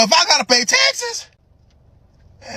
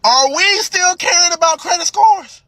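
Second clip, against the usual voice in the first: laughing yet serious; 3 semitones higher than usual. Real, not acted. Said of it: "I'm laughing, but very serious".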